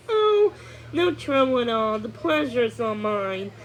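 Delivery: a hint of a grand courtly prince; mock formal gallantry; playing along. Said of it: "The prince played along".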